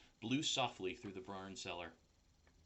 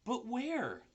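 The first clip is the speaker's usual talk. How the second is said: higher, eager pig; 14 semitones higher, 4 dB louder than usual. Acted. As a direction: ask it brightly. Wilbur asks.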